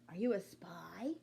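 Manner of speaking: hushed, secretive whisper. Acted. Bean whispering a suspicious question to Frank, hushed. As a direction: breathe it like a conspirator.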